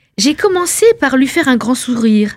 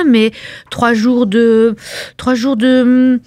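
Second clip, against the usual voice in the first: drawn out; slower than usual. Acted. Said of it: "savouring the words".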